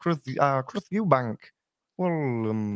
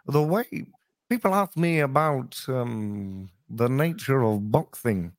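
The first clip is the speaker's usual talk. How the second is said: Chris Eubank impression; 3 semitones higher, slower than usual. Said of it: "he's like".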